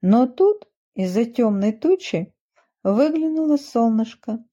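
plain reading voice

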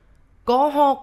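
high, loud outburst of disbelief; angry shout. A narrator's reading. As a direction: shout the denial, fear gone. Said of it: "ผมตะโกนออกไป". (ตะโกนเถียงเสียงดังด้วยความโมโห)

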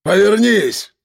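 rough, high barked order; command. A narrator's reading. Gunman ordering the narrator to turn around. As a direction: snap the command. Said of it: "скомандовал Жорич".

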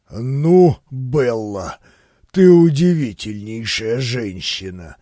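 low, booming admiration; bass rumble. A narrator's reading. Grand Duke praises the dancer in a low bass. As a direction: rumble it out deeply. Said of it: "пробасил".

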